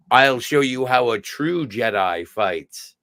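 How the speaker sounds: lightly voiced solemn henchman; manservant's challenge.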